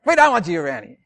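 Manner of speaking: loud fierce shout, fading off at the end; shouting to scare off wolves; scary voice. Shown as a demonstration. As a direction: drive the wolves away, high and loud. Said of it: "You've got to use a scary voice".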